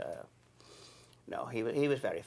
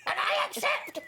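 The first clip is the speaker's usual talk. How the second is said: much higher mock lady's voice, gushing; a co-star hams up Mrs Slocum's eager reply; Mrs Slocum accepting; 4 dB louder than usual. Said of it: "and Missus Slocum said".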